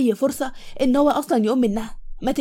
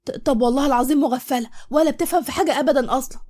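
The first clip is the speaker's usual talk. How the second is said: out loud; 3 semitones higher than usual. Acted. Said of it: "وقالت بصوت عالي".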